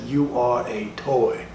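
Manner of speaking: a hint of a solemn Woody, a touch slow; lightly voiced Woody, slow. Woody staring the toy in the eye, slow and level. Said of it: "looked that toy right dead in the motherfucking eye and said".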